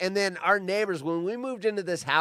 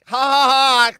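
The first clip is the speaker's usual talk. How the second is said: teasing sing-song, higher and louder; mock taunting laugh; 9 semitones higher, 11 dB louder than usual. Mimicking a girl teasing her mom, taunting and higher. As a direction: rub it in with a gloating ha ha ha.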